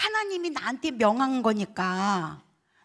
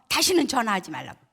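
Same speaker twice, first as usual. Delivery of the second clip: quick retold dismissal; brisk, mildly imitated anger; angry sister; 3 dB louder, faster than usual. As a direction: cut her off like a fed-up sister. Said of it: "언니가 화가 났어요".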